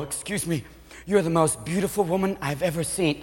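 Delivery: very soft, hushed approach; hushed, reverent compliment; awed admirer. Acted. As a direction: timidly address a goddess. Timid admirer approaches a goddess-like dancer.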